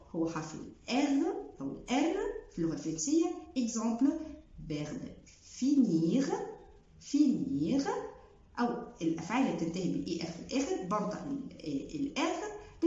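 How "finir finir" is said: finir with the r heard; final r sounded. Shown as a demonstration. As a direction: finish on the r. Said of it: "مش بقول فيني". (finir بـ R)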